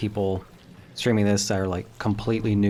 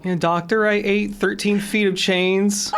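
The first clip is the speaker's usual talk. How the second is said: silly patient voice; 11 semitones higher than usual. Acted. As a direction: whine it to the doctor. Plays a patient confessing.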